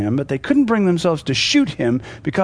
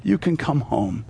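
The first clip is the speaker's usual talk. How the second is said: softly coaxing them out of hiding; gentle and hushed, like luring someone home; calm, quiet call; 5 dB quieter than usual. Retold or imitated. Church calling the lost home, quiet and calm. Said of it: "with a calm and quiet voice".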